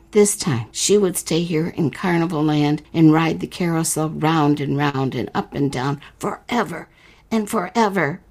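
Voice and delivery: unhurried storyteller reading a fairy tale; story narration. A narrator's reading. Host reading the letter-writer's story to listeners, narrating. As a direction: read it like a bedtime tale.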